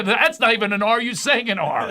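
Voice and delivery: loud, high, incredulous objection; exasperated protest. Acted. Acted quarrel over missing R.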